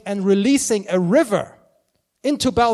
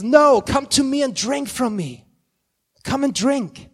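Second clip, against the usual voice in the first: higher, louder insistent invitation; Jesus inviting; 5 semitones higher, 5 dB louder than usual. Retold or imitated. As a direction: insist gently but loudly: come and drink. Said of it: "And Jesus says".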